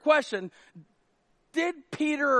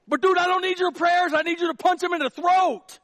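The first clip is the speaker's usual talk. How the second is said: higher, louder, exasperated protest; indignant Peter; 7 semitones higher, 6 dB louder than usual. Pretend. Peter loudly protests to Jesus, higher and exasperated. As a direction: demand action instead of prayers.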